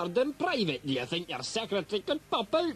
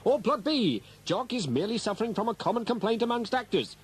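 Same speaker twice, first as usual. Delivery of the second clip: lightly done radio announcer; a touch of the presenter read. Acted. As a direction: sell the phone-in vote, upbeat. Announcer style voting call.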